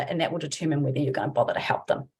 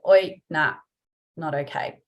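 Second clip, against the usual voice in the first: calm calling out; 3 semitones lower than usual. Shown as a demonstration. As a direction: say "Oi, nah, not okay" coolly, no anger. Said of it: "just chill out and go".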